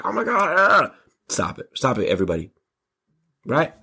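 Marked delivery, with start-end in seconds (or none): 0.0-0.9 higher shocked gasp; mock shock. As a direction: act scandalised. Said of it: "you'd be like".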